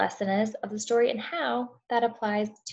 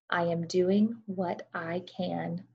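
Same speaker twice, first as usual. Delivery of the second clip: calm hummingbird; much slower than usual. Acted. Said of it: "She said".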